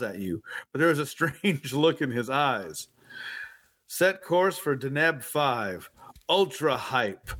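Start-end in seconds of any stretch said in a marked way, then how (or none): 3.9-7.3 slow flat monotone captain; boring droning parody. Acted. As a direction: drone it out slowly, no life. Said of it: "he says in a monotone voice".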